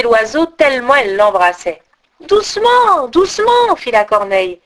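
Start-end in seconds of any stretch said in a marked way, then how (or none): 2.2-3.7 high, squeezed crow voice; a crow crushed in a hug, squawking gently. A narrator's reading. Crow being hugged too hard by Gerda, high squawk.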